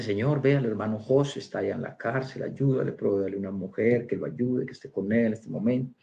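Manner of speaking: oración queda, más grave, recitada; oración imitada. Retold or imitated. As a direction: reza bajito por otra persona, sin dramatizar. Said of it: "a orar y dice". (rezo contado en voz baja)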